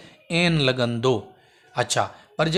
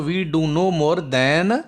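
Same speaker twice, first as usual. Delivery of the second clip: drawn-out answer; teacher dictating slowly; slow dictation; much slower than usual. Shown as a demonstration. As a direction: read the answer slowly for the class. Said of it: "पोइ हिते छा स- थींदो?".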